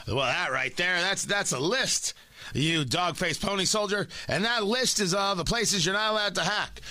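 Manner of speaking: lightly voiced scolding president; mock exasperated old politician; Joe Biden. President explaining the list to a Russian, Joe Biden impression. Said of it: "how's my Joe Biden impression".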